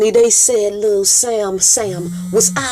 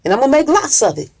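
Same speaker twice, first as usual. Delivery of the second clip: excited boast; 4 semitones higher, faster than usual. Retold or imitated. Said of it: "He said".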